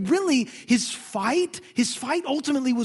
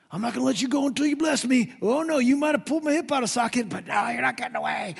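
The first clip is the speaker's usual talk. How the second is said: tough wrestler Jacob; 3 semitones higher than usual. Retold or imitated. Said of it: "I would picture Jacob just".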